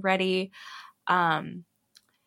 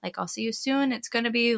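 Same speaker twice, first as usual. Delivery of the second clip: reassuring mother; 4 semitones higher than usual. Retold or imitated. Mother reassuring upset child, retold.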